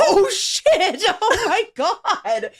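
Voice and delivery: high, laughing gasp of disbelief; flustered fan squeal, words stretched; thrilled shock. Retold or imitated. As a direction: react in giddy high-pitched amazement. Retold thrilled shock at player's answer.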